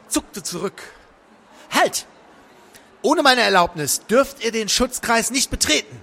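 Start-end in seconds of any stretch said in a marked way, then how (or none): 1.7-2.1 high, sharp halt; alarmed command. A narrator's reading. Crowley as the streak approaches, alarmed command. 3.0-6.0 high, loud prohibition; called-out command. A narrator's reading. Crowley defending his protective circle, called-out warning. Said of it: "rief er".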